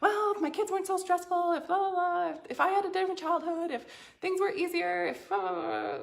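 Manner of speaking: a hint of a self-pitying complainer; mock whiny excuses. Coach mocking how people blame everyone around them, lightly whiny. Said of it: "then you're just gonna blame all the people".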